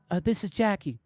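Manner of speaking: lightly imitated soft-spoken caller; a hint of a gentle phone voice; Jackie Jackson. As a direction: mildly imitate a mild-mannered caller. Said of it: "This is exactly how he sounded".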